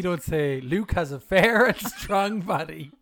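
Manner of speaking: slow, laughing through the words. Real, not acted. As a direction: giggle out the boast, slowly. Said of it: "laughing while saying it".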